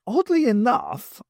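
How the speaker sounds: dry sarcastic drawl; heavy sarcasm. A narrator's reading. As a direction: lay the sarcasm on thick. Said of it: "with heavy sarcasm".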